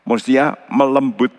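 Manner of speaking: Mestinya melembut, with melembut pressed firmly; stress on melembut. Shown as a demonstration. Preacher correcting the Bible translation, stressing melembut. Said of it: "Bahasa Indonesia".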